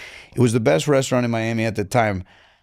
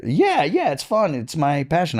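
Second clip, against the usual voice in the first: mock eager student; 4 semitones higher than usual.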